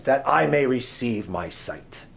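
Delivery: slow, formal scripture quote; King James quotation. Acted. Preacher quoting Bartimaeus from old King James, formal. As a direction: recite it in measured old-Bible style. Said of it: "quote the old King James".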